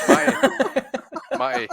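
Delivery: a loud call up high to grab Matty. Real, not acted. Host calling out to Matty to grab his attention, loud. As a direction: shout his name across the table to get his attention.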